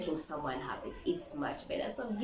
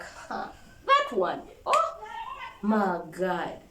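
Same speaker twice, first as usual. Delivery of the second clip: annoyed eye-roll; slower than usual. Pretend. Groaning at the dramatic girl.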